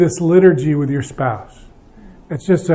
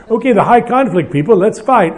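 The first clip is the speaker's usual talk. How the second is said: lightly hammed-up organizer, pitched higher; mock announcing; 4 semitones higher than usual. Leader rallying high-conflict couples, mock announcing. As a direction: playfully call a group out to fight. Acted leader setting groups to fight.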